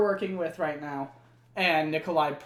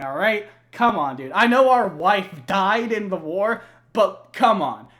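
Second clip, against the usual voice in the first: louder, slightly higher berating; mock scolding rant; 4 semitones higher, 5 dB louder than usual. Nikolai berating his drunk double, mock angry. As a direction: chew him out for drinking. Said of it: "And he's like".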